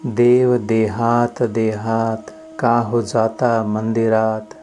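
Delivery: measured Marathi abhang recitation; devotional verse recitation. Acted. Teacher reciting a saint's verse to devotees, measured recitation. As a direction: recite the sacred verse line by line.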